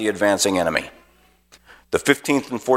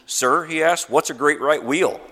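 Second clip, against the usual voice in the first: put-on higher, puzzled young officer's question; confused; 6 semitones higher than usual. Lieutenant asks the colonel, higher and puzzled. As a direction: ask it baffled, voice lifted.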